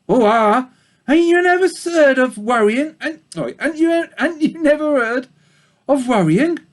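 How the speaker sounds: put-on a gossipy old ewe in a thick country accent. A narrator's reading. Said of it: "Sorry about the bad accents".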